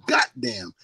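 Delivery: "goddamn" as "got-damn", stopped hard T; "got-damn" pronunciation. Shown as a demonstration. Showing J R the G O T way, "goddamn" with a T. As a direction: break "goddamn" after a crisp T. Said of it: "G O T".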